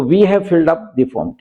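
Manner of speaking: slow, careful example sentence; dictating pace; slow example read. Shown as a demonstration. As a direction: read it out word by word for the class. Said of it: "slow example".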